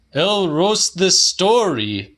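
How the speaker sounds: put-on high, loud, cranky old man; old man's mock curse. A narrator's reading. Mister Kelly mocks the pensioner, loud and high. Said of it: "said Mister Kelly".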